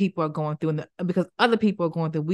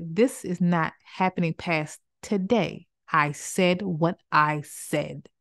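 slow, firm and final; sternly; slower than usual. Shown as a demonstration. To someone who wronged you, stern and slow. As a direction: set the boundary calmly but firmly.

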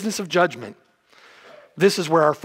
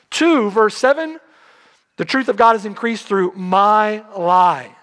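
preaching shout; 3 semitones higher, 3 dB louder than usual. Real, not acted. Preacher rising to a climax.

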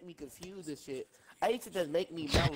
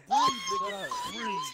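squealing with laughter; 7 dB louder, much slower than usual. Real, not acted. Cracking up, telling friend breathe.

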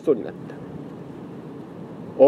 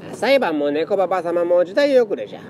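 put-on creaky wise old man; 4 semitones higher than usual. Fortune-teller old cat speaks.

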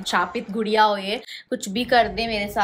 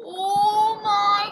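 much higher, drawn-out, panicky; terrified gasp; 9 semitones higher, 3 dB louder, much slower than usual. Real, not acted. Scared girl reacts to the game saying it will hurt her. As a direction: stretch it out in real fright.

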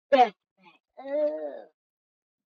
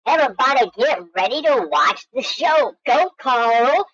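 hype announcer; 4 dB louder than usual. Acted. Gamer cheering on his penguin Carl, with a loud announcer hype. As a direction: introduce the champion to the arena.

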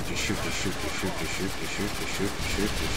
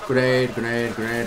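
grenade warning yell; 4 semitones higher than usual. Real, not acted. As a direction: shout the warning fast. Warning squad of incoming grenade.

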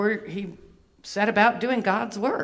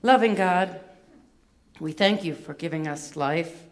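measured, lowered praying voice; calm, reverent prayer; 4 semitones lower than usual. Real, not acted. Leads a short closing prayer.

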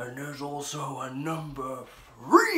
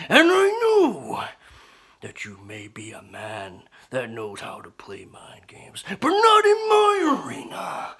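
shouting; 2 semitones lower, 7 dB louder than usual. Acted. Promo threat to rival.

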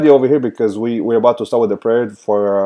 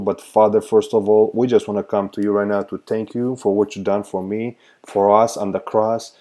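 prayer; 2 semitones lower than usual. Acted. Leads a prayer.

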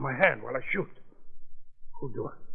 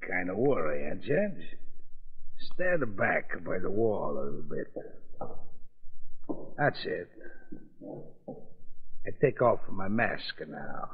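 put-on thick foreign-accented gangster, taunting; menacing mobster in broken English; lightly accented mob boss toying with the judge; 5 semitones lower than usual.

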